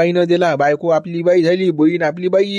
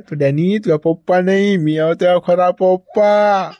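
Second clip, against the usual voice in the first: tender cooing; slower than usual. Acted. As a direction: coo fondly at the little calf, slowly. Cooing to his calf Babu.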